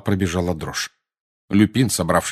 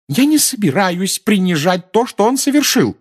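much higher, loud shouting; 12 semitones higher, 6 dB louder than usual. A narrator's reading. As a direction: cry out in protest. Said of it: "закричала миссис Уизли". (закричать)

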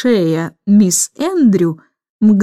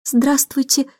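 polite; 4 semitones higher, 3 dB quieter, slower than usual. Acted. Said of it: "вежливо сказала Джейн".

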